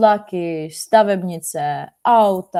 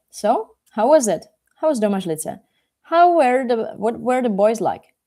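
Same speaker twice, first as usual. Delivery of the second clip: higher, louder, eager questions; curious and animated, pitched up; eager questioning; 4 semitones higher, 4 dB louder than usual. Acted. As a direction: press for news with lively curiosity. Eager questioner in a retold story.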